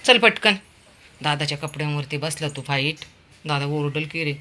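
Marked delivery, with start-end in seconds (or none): 0.0-0.5 higher, louder quick command; urging call. Real, not acted. Hurrying Veer down off the window, loud urging. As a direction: push him to hurry.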